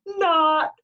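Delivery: loud, high shout of disbelief; imagined yell. A narrator's reading. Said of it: "somebody to yell".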